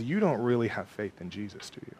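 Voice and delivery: soft, low, insinuating doubt; whispered lies. Acted. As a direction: plant doubt quietly, as the tempter. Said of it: "He whispers".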